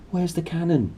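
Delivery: put-on a sleepy dim boy blurting; stupidly. Dudley jerked awake, asking stupidly. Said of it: "he said stupidly".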